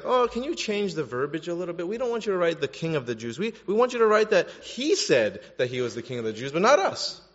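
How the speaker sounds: wheedling retold request, rising at the end; mock pleading. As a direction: imitate fussy officials asking for a favour. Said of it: "these guys are saying, like".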